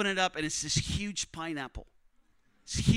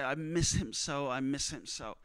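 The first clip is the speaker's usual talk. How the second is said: heartbroken; 5 semitones lower, 4 dB quieter than usual. Retold or imitated. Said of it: "It was heartbreaking".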